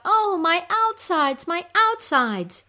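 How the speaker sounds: high, loud, drawn-out wail; moaning cry. Acted. Goddess crying out in her pain, moaning cry. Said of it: "when she cries out".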